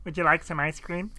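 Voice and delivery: sweet mock waiter voice; silly offering voice. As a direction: offer it in a sing-song put-on voice.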